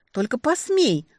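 firm, warning tone, stress on посмей. A narrator's reading. Heroine warns the demon in his own tone, menacing. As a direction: dare him, matching his threat. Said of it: "предупредила я в тон ему".

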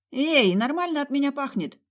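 high-pitched indignant protest; object, offended, pitch shooting up. A narrator's reading. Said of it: "возмутилась я".

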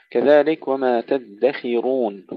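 تدخرون with KH on i and thick R on u; kasra kha, heavy ra. Shown as a demonstration. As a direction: mark each vowel of تدخرون. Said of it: "كسر الخاء قبل أن ننتقل إلى ضم الراء". (كسر الخاء وتفخيم الراء)

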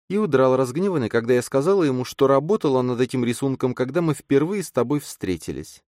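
слегка выше, мягкий голос женщины; чуть озвученная молодая женщина; женский голос героини. A narrator's reading. Эллен озвучена выше голоса рассказчика. (лёгкий женский голос)

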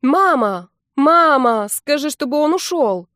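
loud, high calling out for mom; wailing to mom. Acted. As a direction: yell across the house for mom. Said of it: "загласила".

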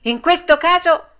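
high, loud, heroic declaration; proud cry. A narrator's reading. Pinocchio stands up to the puppet master, high proud cry. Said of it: "gridò fieramente Pinocchio".

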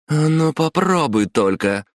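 high, drawn-out menacing dare; slow threatening challenge; hissed threat. A narrator's reading. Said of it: "прошипела Майоко".

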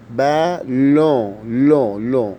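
بالون with a nasal vowel at the end and no clear N; لون said with a nasal vowel, N only through the nose. Shown as a demonstration. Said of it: "ال N بتتنطق من الأنف".

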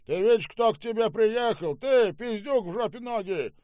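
high-pitched, loud ranting; furious tirade. Acted. Boss abuses the manager and demands an answer, furious. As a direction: build the abuse to a yelled demand.

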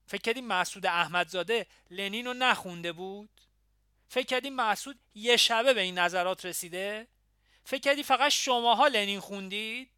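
put-on fly off the handle at the young comrades; angry questions rising in force; fairly loud, angry. A narrator's reading. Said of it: "از کوره در رفت و با صدای نسبتاً بلند".

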